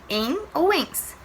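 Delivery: "Em ou ens." said slowly and deliberately; slow classroom repetition; slow recap. Shown as a demonstration. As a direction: spell out "Em ou ens." at a slow teaching pace. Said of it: "ou ens, né?".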